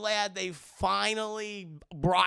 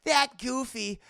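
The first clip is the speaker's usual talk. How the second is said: infatuated; 4 semitones higher, 4 dB louder, slower than usual. Retold or imitated. Fan swooning over Goofy.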